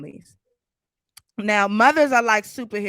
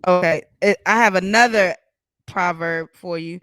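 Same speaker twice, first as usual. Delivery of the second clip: inside a fishbowl; 5 dB louder than usual. Real, not acted. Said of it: "you sound like you're in a fishbowl".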